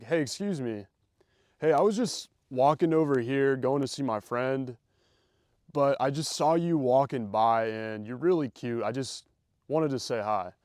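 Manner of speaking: deliberately slow opener with long pauses; slowed down, calm. Shown as a demonstration. Guy stopping a girl walking by, slow and calm. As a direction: take your time, calm and unhurried, pausing between phrases. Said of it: "if I slow it down, I deliberately calm myself down".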